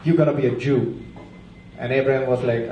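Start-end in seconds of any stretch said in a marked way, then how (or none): 0.1-0.9 a touch lower, deep-ish God voice; hint of a manly deity; masculine God. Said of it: "God has a very masculine voice".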